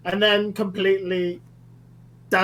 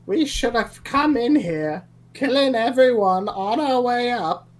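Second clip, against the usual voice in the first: hushed but forceful yell; whisper yelling; 2 semitones higher than usual. Acted. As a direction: yell it under your breath. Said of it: "He's, he's whisper yelling".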